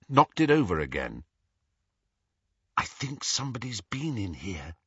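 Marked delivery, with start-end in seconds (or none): 2.8-4.8 soft, hushed whisper. A narrator's reading. Hermione to her friends in the dark hallway, whispered. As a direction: whisper it under your breath. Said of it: "Hermione whispered".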